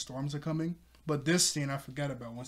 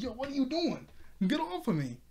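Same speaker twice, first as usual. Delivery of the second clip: mock annoyance; 10 semitones higher than usual. Zoro knocked over by Nami.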